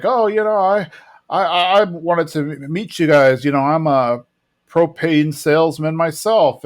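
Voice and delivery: lightly voiced awkward salesman; sheepish introduction. Hank introducing himself to the propane dealer, sheepish.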